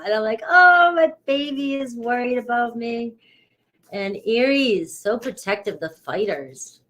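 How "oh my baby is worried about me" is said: doting mother. Retold or imitated. Mom reacting to her son's warning, doting coo.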